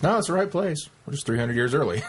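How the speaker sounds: a touch of gleeful mockery, half laughing; imitating a smug little gloat; lightly voiced gleeful teasing; gleeful jab. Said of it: "the hint of glee in Adric's voice".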